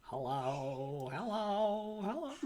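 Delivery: squeakier with every hello; squeaky puppet voice. Acted. Building squeaky puppet greeting.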